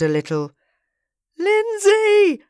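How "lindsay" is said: high, loud cry for attention; long, high-pitched yell; yelled name. A narrator's reading. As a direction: holler the name at the top of the voice. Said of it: "yelled Stephen".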